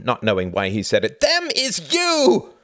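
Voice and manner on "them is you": slow, high, full-force shout; enraged scream. A narrator's reading. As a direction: scream it back at your son. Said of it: "screamed Martin".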